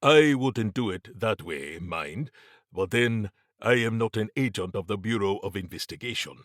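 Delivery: measured, formal character voice; lightly voiced Mabati, tactful. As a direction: lightly play a diplomatic observer.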